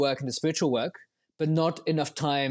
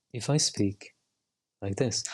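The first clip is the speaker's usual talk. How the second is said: lower, altered voice; different demo voice; 5 semitones lower, slower than usual. Shown as a demonstration. Showing the interviewer another way of speaking, altered low voice. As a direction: put on someone else's voice.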